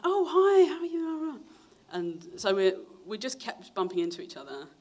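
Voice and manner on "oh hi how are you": high, bright-sounding sing-song hello, a lot higher; cheery woman greeting. Retold or imitated. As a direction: greet him like an overly friendly mum.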